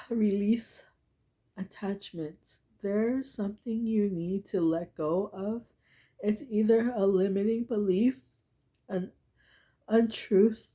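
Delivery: fighting back tears, breathy start; getting emotional. Real, not acted. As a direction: voice catching while reading. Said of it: "I'm just getting emotional".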